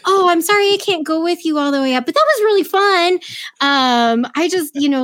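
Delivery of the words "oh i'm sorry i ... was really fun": put-on playful childlike.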